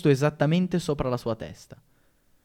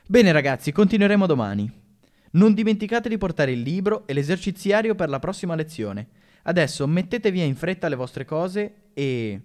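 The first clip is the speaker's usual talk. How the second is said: lightly voiced teacher, bright and brisk; cheerful teacher; 4 semitones higher than usual. Teacher to her class at the bell, brisk and cheerful. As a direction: wrap up the lesson briskly, a touch higher.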